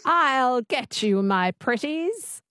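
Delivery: slow, twangy witch attempt; Wicked Witch. Shown as a demonstration. Learner copying the coach, light Wicked Witch voice. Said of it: "Just say that".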